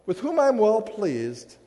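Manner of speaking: slow, solemn voice of God; measured heavenly proclamation; voice from the cloud. Acted. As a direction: let each phrase land slowly from above. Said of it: "this voice comes from the cloud".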